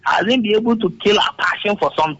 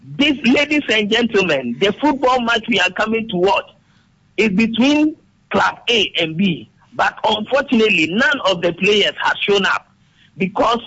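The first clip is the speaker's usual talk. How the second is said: sports commentator. Shown as a demonstration. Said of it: "Let me read like a commentator".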